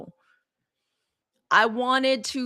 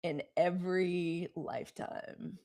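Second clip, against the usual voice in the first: soft and slow; 5 semitones lower, 8 dB quieter, slower than usual. Shown as a demonstration. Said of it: "could somebody please put".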